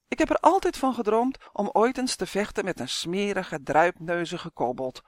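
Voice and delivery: a hint of a sneer at the kobold; mocking. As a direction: tease with mild scorn. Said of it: "spotte Uf".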